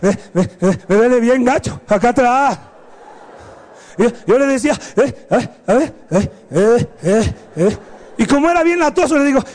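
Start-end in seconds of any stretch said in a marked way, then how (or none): 0.0-2.6 imitated hiccuping sobs breaking into words; mock a sore kid whimpering a complaint; crying. Sobbing brother complains of pain, hiccuping mock cry. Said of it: "¿Cómo te quedas llorando?". 5.0-7.8 mock sobbing between short words; crying. Sobbing child checks his brother, mock hiccuping cry. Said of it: "¿Cómo te quedas llorando?".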